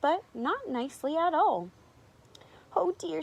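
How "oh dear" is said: worried cow. A narrator's reading. Cow frightened by roaring lions.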